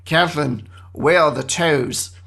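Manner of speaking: police question in a hammed-up Australian accent; bad Australian accent. Police questioning Kathleen about the toes, in a bad Australian accent. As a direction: put on a terrible Australian accent. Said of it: "I'm gonna do an Australian accent here".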